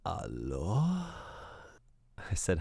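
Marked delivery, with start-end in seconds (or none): 0.1-1.0 a lightly voiced hushed woman's "Allo?"; hushed, barely-there phone greeting; soft breathy hello. Mimicking the caller's soft hello on the phone. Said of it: "this really soft, really quiet voice comes on".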